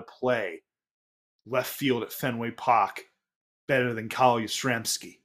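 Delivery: Boston accent, "Carl" as "Cahl" with no r. Real, not acted. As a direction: say "Carl Yastrzemski" the Boston way, r dropped.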